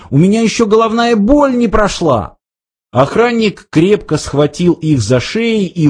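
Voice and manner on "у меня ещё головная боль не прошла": panicked whine. A narrator's reading. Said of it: "закричал Артур".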